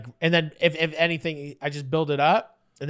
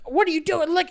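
retold dad's yell; 11 semitones higher than usual. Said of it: "yelling at his kid".

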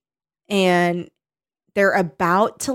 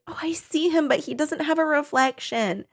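put-on puzzled girl; 7 semitones higher, 5 dB quieter than usual. Acts Jessica's puzzled discovery.

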